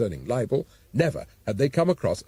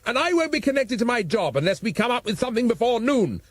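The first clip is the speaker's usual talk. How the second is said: raised, exasperated shout; shouting Commissioner; 10 semitones higher than usual. A narrator's reading. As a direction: bellow it at the assistant. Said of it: "shouted the Commissioner".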